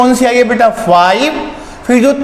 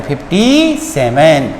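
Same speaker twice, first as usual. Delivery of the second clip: slow read-out; 6 semitones lower, much slower than usual. Shown as a demonstration. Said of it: "इसको simply आप क्या पढ़ते हैं".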